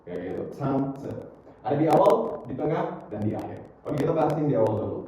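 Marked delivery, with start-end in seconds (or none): 0.6-1.1 "Tante" with an overdone, aspirated T; exaggerated English T. Shown as a demonstration. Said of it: "dalam bahasa Inggris kita lebay".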